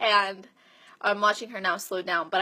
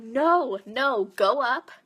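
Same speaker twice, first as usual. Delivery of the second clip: firm coaching refusal; 3 semitones higher, 3 dB louder, much slower than usual. Retold or imitated. Coach to client asking to run at five, insistent. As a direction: overrule the runner and push harder.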